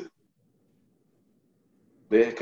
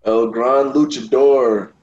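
ring announcer; 6 dB louder, slower than usual. Acted. Co-host introduces himself with a ring name.

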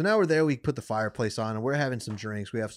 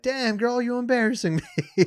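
mock embarrassed guy; 12 semitones higher, 5 dB louder than usual. Guy scolds girl who fell.

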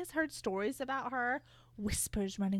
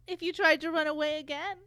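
sugary sinister schoolmarm, a bit higher; a hint of a syrupy menacing witch; Dolores Umbridge voice; 5 semitones higher than usual. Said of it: "that ghastly Dolores Umbridge voice".

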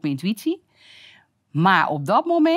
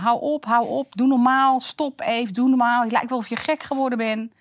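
exasperated; 5 semitones higher than usual. Retold or imitated. Peter's exasperated reaction retold.

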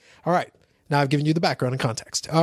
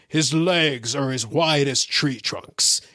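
slow, lightly mocked announcer; a hint of drawn-out promo narration; voiceover guy; 3 semitones lower, much slower than usual. Host imitating the promo introducing Hogan, lightly voiced announcer. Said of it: "a voiceover guy who would like".

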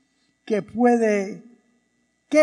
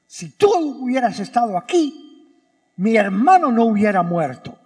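firm, accusing, stress on tú; reproachful; 3 dB louder than usual. Shown as a demonstration. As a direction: throw the blame right at him. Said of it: "ese es el tono que me suena".

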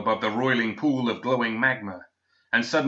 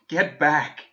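high, louder, cracked and parched warning; dry broken voice; 5 semitones higher, 4 dB louder than usual. Acted. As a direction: force it out through a broken throat. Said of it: "in a voice dry and broken".

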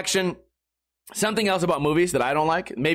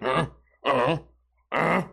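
mock grunting; 3 semitones lower, slower than usual.

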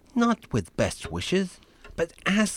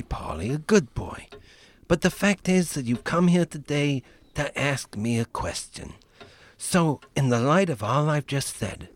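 mafia Godfather; 4 semitones lower than usual. Acted.

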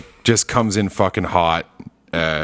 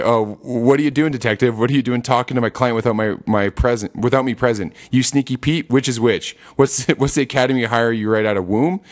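Saul impression. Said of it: "what do you say?".

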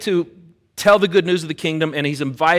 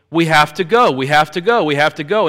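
retold panicked urging; 3 semitones higher, 5 dB louder than usual. Retold panic inside the car.

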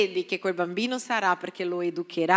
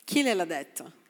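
softer, lower musing question; soft repeat; 5 semitones lower, 5 dB quieter than usual. Acted. Pastor repeating the question to himself, soft and low. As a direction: drop the voice and let it sink in.

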